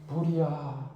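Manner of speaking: soft, understated "불이야" with no urgency; limp fire call. Shown as a demonstration. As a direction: say "불이야" like it's nothing. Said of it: "이러는 사람이 어디 있어요". (힘없이 "불이야")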